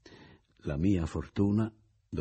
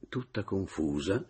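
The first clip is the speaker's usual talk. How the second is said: plain reading voice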